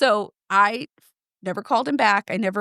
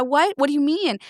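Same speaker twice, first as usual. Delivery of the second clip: shocked disbelief; 6 semitones higher than usual. Retold or imitated. Her own shocked reply to doctor.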